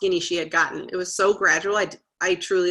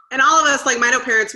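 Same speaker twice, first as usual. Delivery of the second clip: laughing through the words, a bit louder; 6 semitones higher, 7 dB louder, faster than usual. Real, not acted. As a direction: chuckle as you say it, amused at yourself. Laughs recalling fellow parents.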